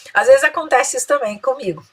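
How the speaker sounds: normal talking voice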